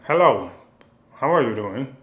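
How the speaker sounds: hammed-up kung fu dub greeting; badly dubbed martial arts line. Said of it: "be like".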